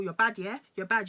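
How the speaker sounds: retold goading jab, punched loud; mock taunt. Boyfriend daring her after she won't apologise, mock taunting.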